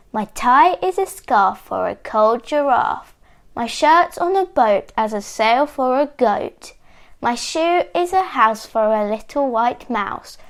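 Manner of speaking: lilting spoken rhyme at normal volume; bouncy verse, half sung at most; mild singsong. A narrator's reading. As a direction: recite it like a little ditty to yourself. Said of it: "singing to himself".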